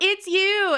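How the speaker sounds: very high, loud, welcoming voice. Retelling how a beloved teacher greeted pupils: imitating teacher Claire. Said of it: "throw her arms wide and she would go".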